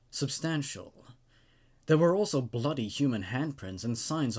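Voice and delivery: calm, even reading of a creepy tale; story narration. A narrator's reading. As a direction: tell it like a campfire story, steady and measured. Reads the creepypasta aloud.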